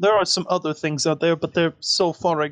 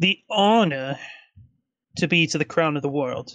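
pompous, overly dramatized, theatrical tone. Voicing a character asking the group about the crown of the world: pompous, overly dramatized tone. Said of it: "he says that with a very pompous, overly dramatized sort of tone".

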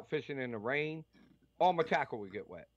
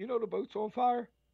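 play-acted unbothered, matter-of-fact calm, slightly pitched up; 9 semitones higher than usual. Retelling how a wife announced the boat was on fire: imitating wife saying it calmly. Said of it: "so calmly".

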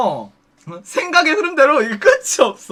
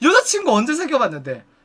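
ordinary talk, nothing marked

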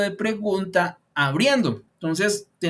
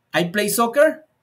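tune climbs at the end of soccer; 4 semitones higher, 4 dB louder than usual. Teaching informal spoken questions by raising intonation, rise on "soccer" at the end. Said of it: "subiendo la entonación".

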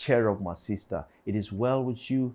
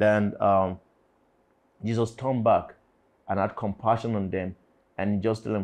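ordinary delivery

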